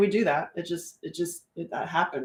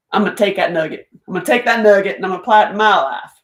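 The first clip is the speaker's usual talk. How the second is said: eager vow; 6 dB louder, much faster than usual. Retold or imitated. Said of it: "you'll find some nugget and be like".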